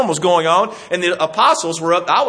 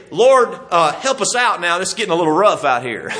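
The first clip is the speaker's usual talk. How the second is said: mild mock casual ask. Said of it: "notice what they said. They didn't say".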